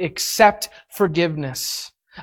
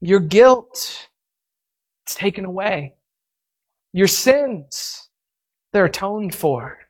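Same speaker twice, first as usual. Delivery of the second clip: tender; 3 semitones lower than usual. Retold or imitated. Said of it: "he says to him".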